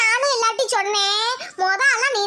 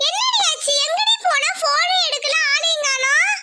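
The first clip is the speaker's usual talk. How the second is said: anxious scolding; 4 semitones higher than usual. Acted. Worried friend scolding on phone.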